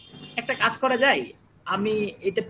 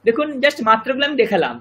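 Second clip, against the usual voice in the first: laughing; 4 semitones higher, 6 dB louder than usual. Real, not acted. Teacher laughs at student joke.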